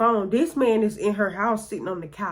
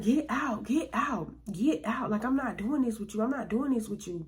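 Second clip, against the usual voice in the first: firm dismissal; 3 semitones higher, 6 dB quieter than usual. Retold or imitated. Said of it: "she was like".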